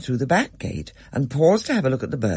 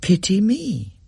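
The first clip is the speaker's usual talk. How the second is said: bird voice; 9 semitones higher, 3 dB louder, slower than usual. A narrator's reading. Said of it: "teach a budgerigar to say".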